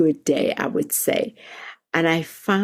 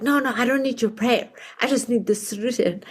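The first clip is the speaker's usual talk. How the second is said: impatient; 6 semitones higher, faster than usual. Retold or imitated. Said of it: "I found him more flustered".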